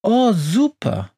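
high, slow mock delight; sarcastic. A narrator's reading. Witch told she will get a present, sarcastic. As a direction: drag it out with sarcasm. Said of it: "meint die Hexe sarkastisch".

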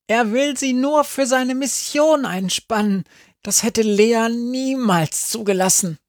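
hohe Stimme eines kleinen Hundes; sprechender Hund. A narrator's reading. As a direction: ein frecher kleiner Hund spricht. Sami the talking dog. (hohe Hundestimme)

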